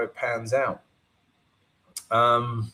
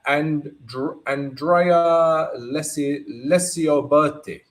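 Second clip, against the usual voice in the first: lightly put-on Italian accent, drawn out; 4 semitones higher, slower than usual. Trader reads a viewer's name, playful Italian accent. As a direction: stretch the name slowly with an Italian lilt. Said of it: "I said that in my Italian accent".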